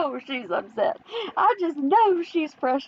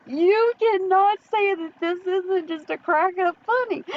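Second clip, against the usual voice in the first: laughing through the words, voice cracking up; can barely get it out for laughing; 4 semitones higher than usual. Real, not acted. Commentator cracking up at a creator's replies, laughing hard.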